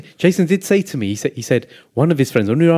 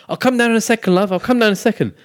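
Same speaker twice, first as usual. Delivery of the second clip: higher-pitched call back to the wife; placating reply; 7 semitones higher than usual. Retold or imitated. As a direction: sing out a reply to a waiting partner. Acting out his reply to wife.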